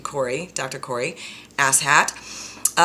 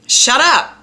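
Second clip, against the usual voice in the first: loud, high shout; 10 semitones higher, 9 dB louder than usual. Retold or imitated. To the mean liar voice, a loud high shout. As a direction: blast it away. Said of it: "I say to that mean liar voice".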